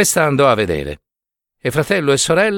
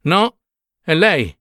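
higher, imploring plea; a touch of desperate pleading; 6 semitones higher than usual. A narrator's reading. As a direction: beg him as her true priest. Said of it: "supplicò Nunziata".

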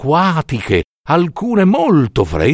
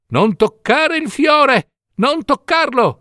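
put-on old woman's cry; 12 semitones higher than usual. A narrator's reading. Old woman warns the mother off the flower, crying out. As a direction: cry out to stop someone at once. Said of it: "gridò la vecchina".

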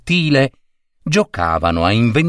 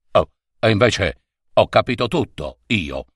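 smiling reply. Acted. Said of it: "rispose sorridendo il vecchio signore".

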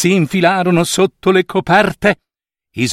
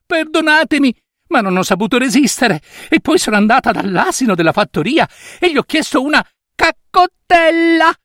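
put-on high, breathless girl's confession; girl confessing to her mother, high and anxious; frightened girl; 9 semitones higher than usual. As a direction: pour it out high and scared.

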